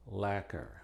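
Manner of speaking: lacquer said as "laker" with the c silent; silent c demo. Shown as a demonstration. Teacher showing the one word where the c is silent. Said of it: "es muda en una sola palabra".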